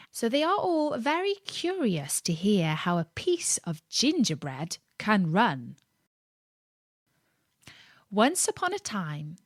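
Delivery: hushed bedtime voice, near whisper; soft storytelling. Real, not acted. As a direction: tell it softly so no one wakes. Speaks softly throughout.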